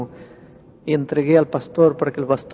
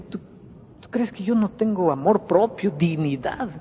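indignant, pitched up but held back in volume; retold hurt pride, building toward an outburst; wounded outcry; 4 semitones higher, 4 dB quieter than usual. Husband protesting to the pastor that he has dignity, wounded outcry. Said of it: "gritó como una fiera herida".

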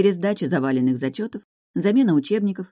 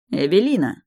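relieved; 4 dB louder than usual. Acted. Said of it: "почти обрадовался мне Эрик".

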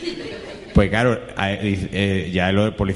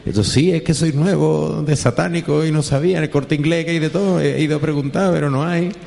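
sheepish satanist; 5 semitones higher than usual. Acted. Satanist to undercover cop, sheepish higher voice. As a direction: play the clumsy new satanist bluffing.

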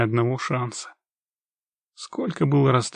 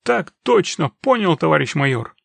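frightened squeak; 2 semitones higher, 4 dB louder than usual. Acted. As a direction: squeak it like a terrified recruit. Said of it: "пропищал в ответ перепуганный".

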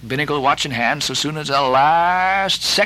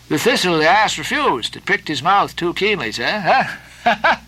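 a lightly raised, joking sailor's voice; jovial Stubb; 4 semitones higher than usual. Acted. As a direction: tease the captain, half laughing. Stubb jokes at the wreck.

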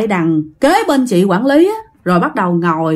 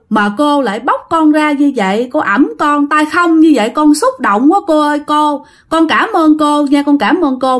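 put-on sobbing like a child; 4 semitones higher than usual. Dead girl thanking the manager, childlike sobbing. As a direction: sob out the thanks like a small child. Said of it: "vừa khóc vừa nói vừa ôm chân của chị quản lý".

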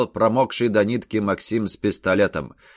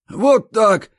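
triumphant shout; 12 semitones higher, 6 dB louder than usual. A narrator's reading.

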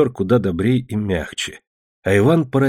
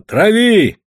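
shouted order; 11 semitones higher, 6 dB louder than usual. A narrator's reading. Captain's order on deck.

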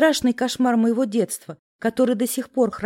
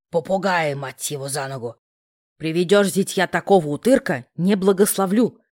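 lower, huffing aunt voice; puffing aunt; 4 semitones lower than usual. A narrator's reading. Aunt scolding the absent father, lower and huffing. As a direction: puff it out like a cross old aunt. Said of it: "пропыхтела тётя".

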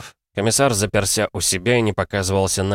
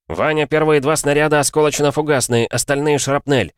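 loud, high urgent orders; shouted fire commands; 7 semitones higher, 4 dB louder than usual. Acted. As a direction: yell the orders over the cannon. Commander orders shell types.

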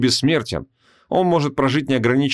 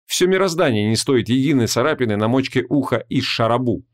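ordinary delivery, nothing marked

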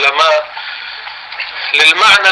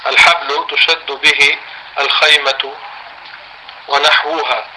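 slow, words spaced for writing; slow dictation; 3 dB quieter, slower than usual. Shown as a demonstration. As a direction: read it out slowly for notes. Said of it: "اكتبوها".

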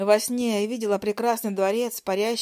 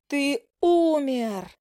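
shout; 4 semitones higher, much slower than usual. A narrator's reading. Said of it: "изо всех сил заорала я".

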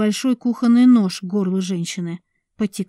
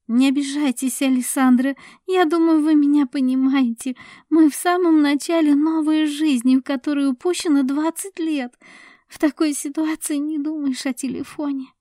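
higher, louder polite brush-off; lightly voiced cool man; smooth man; 7 semitones higher, 4 dB louder than usual. A narrator's reading. Nina politely rebuffing Sasha, lightly voiced.

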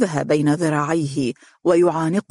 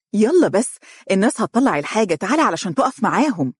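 eager urging; 5 semitones higher, faster than usual. Acted. Wife pulling him by the hand.

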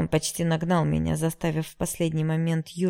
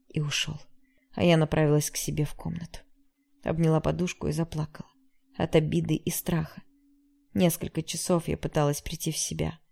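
ordinary delivery, nothing marked

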